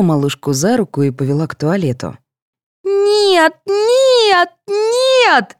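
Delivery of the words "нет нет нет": put-on very high child's voice, rising; a toddler howling in protest; child wailing no. A narrator's reading. Sveta resisting her mother, wailing high. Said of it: "завопила Света".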